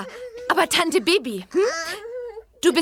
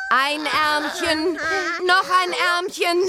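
coaxing singsong; 2 semitones lower, slower than usual. Acted. Bibi dressing the other twin, slow coaxing singsong. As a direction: coax the second baby into the jacket. Second baby, same coaxing.

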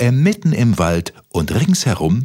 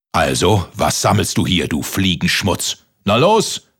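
bellowing giant. Acted. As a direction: bark it down from above. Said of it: "brüllte der Riese von oben".

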